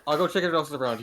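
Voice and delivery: cool action hero. Acted. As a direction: deliver it like a tough hero line. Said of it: "I can never try to be cool when I talk to you".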